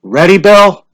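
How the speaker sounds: a hint of a village official calling out; lightly voiced lottery official; Mr. Summers' voice. A narrator's reading.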